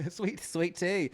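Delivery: sassy Southern gay voice. Pretend. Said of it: "sassy Southern gay voice".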